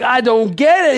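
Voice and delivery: lightly acted puzzlement; baffled. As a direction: act out head-scratching confusion. Puzzled man scratching his head.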